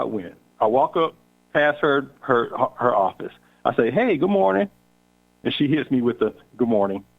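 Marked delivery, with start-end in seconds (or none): 3.9-4.7 cheerful. Retold or imitated. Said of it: "Really dry like that". 6.6-7.0 a short, cold "Good morning." lower in pitch; dry. Retold or imitated. Coworker still upset, returns his greeting dryly. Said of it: "Really dry like that".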